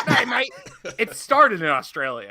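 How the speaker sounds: put-on a lightly done, giggly Australian accent; mock Australian accent. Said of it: "The part where everyone comes Australian".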